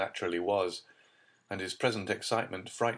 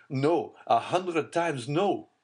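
anguished denial; 8 semitones higher, 6 dB louder, slower than usual. A narrator's reading. Despairing denial, face in hands.

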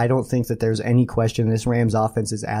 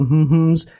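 teasing hmm; 5 semitones higher, 5 dB louder than usual. Pretend. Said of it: "I just refuse to say those words".

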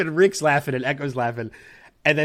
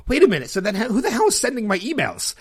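sudden realization; 8 semitones higher than usual. Retold or imitated. Actor learning his agent is on leave, surprised outburst. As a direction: catch yourself mid-thought in shock.

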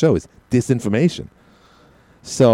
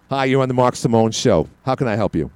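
a light hint of a talk radio host's smooth delivery; barely shifting into a friendly radio host voice; Mark Simone. Host jokingly greeting a caller as Mark Simone, lightly voiced. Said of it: "I just turned into Mark Simone".

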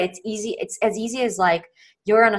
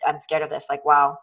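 mild mock judgy self-scolding; 4 semitones lower than usual. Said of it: "from a judgy place where it's like".

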